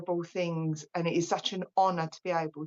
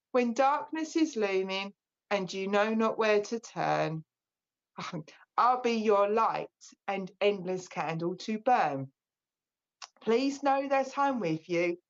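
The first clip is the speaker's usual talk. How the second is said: slow, gentle poem recital with long pauses; poem reading. Acted. Medium reads a comfort poem to her audience, slow and gentle. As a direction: read it slowly to grieving listeners.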